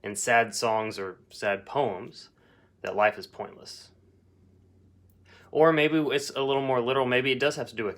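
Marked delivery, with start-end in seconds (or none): 0.0-3.9 slow paraphrase. Shown as a demonstration. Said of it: "So maybe saying".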